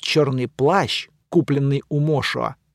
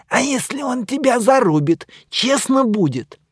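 mummy retorts; 9 semitones higher than usual. Acted.

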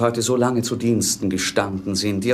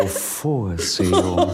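laughing reply; 5 semitones lower, much slower than usual. Acted. Leonce answers, laughing.

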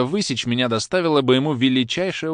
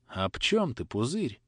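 sympathetic; 5 dB quieter, slower than usual. Acted. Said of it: "сказал папа с участием".

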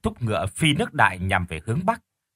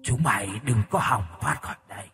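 raspy corpse voice; 4 dB quieter than usual. Acted. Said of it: "tiếng nói khàn khàn".

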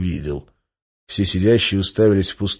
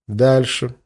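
icy voice; 4 semitones higher than usual. Acted. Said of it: "ледяным голосом сказал Гессер".

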